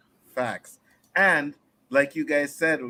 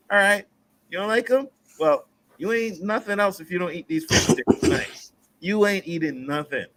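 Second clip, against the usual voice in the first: higher, firm dad voice laying down the rule; mock stern dad; 7 semitones higher than usual. Dad telling his son he gets no other food, mock stern. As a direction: mimic a father's dinner ultimatum.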